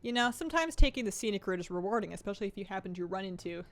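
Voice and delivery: breathless from rushing back; out of breath, panting lightly. Real, not acted. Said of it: "sorry, I'm out of breath".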